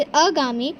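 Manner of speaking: अगामी with a short first a; wrong short a. Shown as a demonstration. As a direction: say अगामी, clipping the opening vowel. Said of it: "हम आगामी की जगह अगामी कर देते हैं". (गलत उच्चारण अगामी, छोटा अ)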